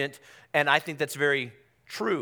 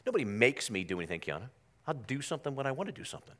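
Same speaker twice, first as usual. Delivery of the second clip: mock defiant; 6 dB quieter, faster than usual. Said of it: "anybody have that spirit about them".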